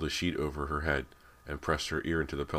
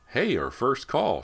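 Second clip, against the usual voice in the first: much higher and louder, slowed with delight; excited exclaim; 10 semitones higher, 8 dB louder, slower than usual. A narrator's reading. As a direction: burst out at the ringing phone. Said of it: "she exclaimed".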